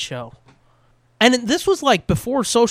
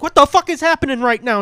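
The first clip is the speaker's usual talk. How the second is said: mock bafflement; 8 semitones higher, 6 dB louder than usual. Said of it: "And it's like".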